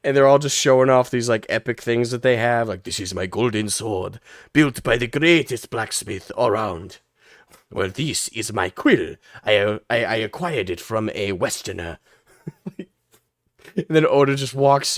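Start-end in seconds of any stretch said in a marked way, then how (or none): 2.8-12.0 boasting daimyo lords. Acted.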